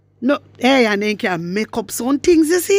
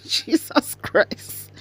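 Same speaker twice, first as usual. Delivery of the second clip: laughing; 4 dB quieter, much slower than usual. Real, not acted. Laughing in disbelief at clip.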